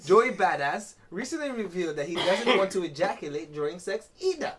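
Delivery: high-pitched, put-on Jamaican article read; Jamaican accent. Host reads gossip article to co-host in a Jamaican accent. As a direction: play newsreader with a lilting Jamaican accent. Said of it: "My Jamaican accent".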